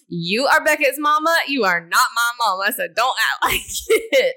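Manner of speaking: husband telling wife not to mother him, mocking; husband's retort. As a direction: throw his complaint back, lightly hammed. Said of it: "as Hunter tells me all the time".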